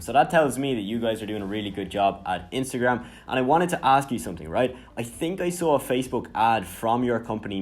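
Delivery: friendly, energetic DM read; upbeat voice message. Shown as a demonstration. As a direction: sound like a real person excited to reach out. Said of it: "now we're gonna pitch in our question".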